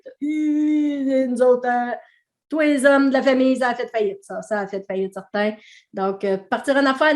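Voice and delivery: broad Québécois accent, mock-gloomy grandparents. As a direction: lay on a thick Québécois accent, imitating a resigned family. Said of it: "mon accent québécois quand je parle comme ça".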